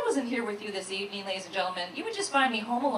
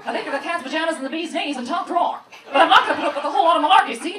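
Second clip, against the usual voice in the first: fast, louder 1940s gangster moll; femme fatale; 3 semitones higher, 6 dB louder, much faster than usual. Retold or imitated. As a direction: rattle off old-movie slang. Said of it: "the G P S sounds like a femme fatale".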